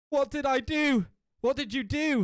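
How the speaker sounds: high-pitched disbelieving outcry; mock shock. Character realizes what they did with the knife, mock shock. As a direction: cry it out in hammed-up alarm. Acted shock in read-out story.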